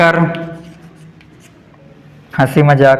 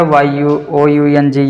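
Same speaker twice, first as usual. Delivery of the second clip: spelling out; 3 semitones lower, slower than usual. Shown as a demonstration. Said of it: "चाइल्डहुड हो गया".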